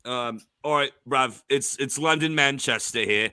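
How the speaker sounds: put-on laddish British accent. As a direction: open the pick as a mock English lad. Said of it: "Joseph and I can talk a British accents".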